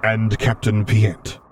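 slow rumbling Vader call; drawn-out commanding call; dark lord. Acted. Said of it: "the vocoder rumbled after him".

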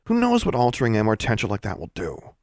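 a touch of exasperation at a sibling; annoyed. Acted. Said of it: "sounding more annoyed than angry".

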